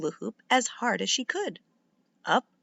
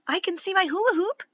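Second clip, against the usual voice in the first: excited spotting; 9 semitones higher, faster than usual. A narrator's reading. Spotting toy through fence.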